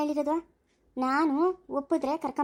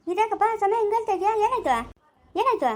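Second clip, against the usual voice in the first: alarmed concern; 5 semitones higher than usual. Acted. Sees him crying, alarmed.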